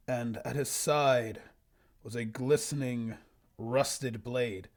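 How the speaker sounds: slow, measured storybook reading; story narration. Acted. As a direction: read it out like a solemn fantasy tale. Reads own old story aloud.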